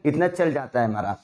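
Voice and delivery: usual speaking voice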